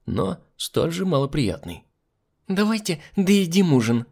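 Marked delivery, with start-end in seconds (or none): 2.5-4.1 high-pitched merry chirp; cheerful chirping. A narrator's reading. Hostess urging guests back to dinner, cheerfully chirping. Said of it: "весело прочирикала Альбина".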